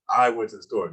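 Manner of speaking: "I" punched, then falling through to "store"; stress on I. Shown as a demonstration. Answering someone who doesn't believe it, "I" emphasized. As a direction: make "I" stand out from the rest. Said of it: "So now I want to emphasize that I".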